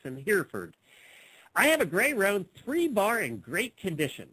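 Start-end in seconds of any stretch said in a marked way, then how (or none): 1.6-4.3 swooping, exaggerated ad read; put-on ad reading. Host reads a misspelled horse ad, put-on reading voice. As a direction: read it with showy ups and downs. Reading a classified ad aloud mockingly.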